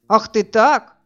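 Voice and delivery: a sudden loud, furious roar; roaring in rage. A narrator's reading. After she slaps him, Sergei roars at her, loud and furious. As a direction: bellow it at her after the slap. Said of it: "взревел он".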